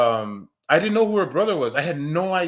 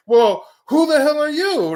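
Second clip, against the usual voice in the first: higher, louder retold snap back; mock angry challenge; 12 semitones higher, 7 dB louder than usual. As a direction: throw it back at him, hammed-up. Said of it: "I'm all like".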